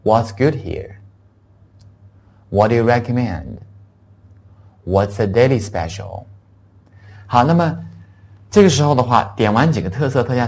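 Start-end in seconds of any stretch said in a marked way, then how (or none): 0.0-6.2 slow, clear English questions for repeating; careful teacher's read-aloud; read-along model. Shown as a demonstration. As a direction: lead the class, pausing after each question. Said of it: "请大家现在一起来跟我读一下".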